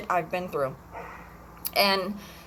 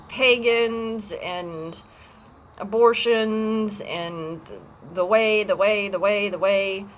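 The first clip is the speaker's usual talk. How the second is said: slow, drawn-out mock sermon, a little louder; lightly imitating a zealot repeating his creed; a hint of a fervent preacher; mimicking the ex's preaching; 3 dB louder, slower than usual. Mimicking ex's religious ranting.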